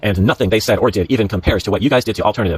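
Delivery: emphatic read-aloud of an angry post. Acted. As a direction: read the accusing post out with mild indignation.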